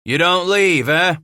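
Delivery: high, loud challenge; yelling. A narrator's reading. Gamble challenges the matriarch to leave, yelling. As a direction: yell the question over to her. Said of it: "Gamble yelled now".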